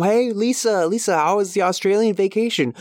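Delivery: high-pitched, eager neighborly greeting; playful put-on small-talk voice; mock chatty friend. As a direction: call over a friend for vacation gossip. Acting friend asking about vacation.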